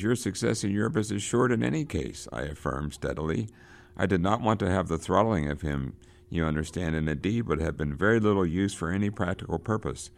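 reading a novel passage aloud with rising drama; dramatic read-aloud. A narrator's reading. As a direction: lecturer reading Conrad to the class with gathering intensity. Teacher reads novel passage aloud.

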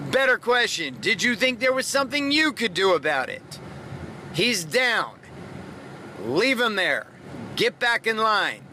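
deliberate, commanding coach voice with long pauses; stern coach. Retold or imitated. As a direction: order them back in line like a camp trainer. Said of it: "the coach said something interesting".

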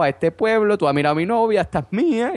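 mock tough-guy challenge, squared up; a village lout jealously claiming his girlfriend; picking a fight. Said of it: "vienen los del pueblo de al lado".

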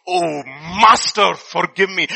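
slow, begging plea; pleading subject. Retold or imitated. Betrayer begging the emperor, mildly pleading. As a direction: beg the master for mercy. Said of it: "he starts pleading".

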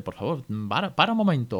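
rising to a high, loud urgent stop; a stressed parent pleading to stop, voice jumping up; tense plea. Retold or imitated. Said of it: "momento de esto de tensión".

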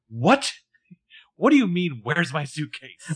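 mock shocked disbelief, pitch jumping up on the question; hammed-up shocked reaction; acted shock. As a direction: play it shocked, milking the question. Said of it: "be fucking shocked".

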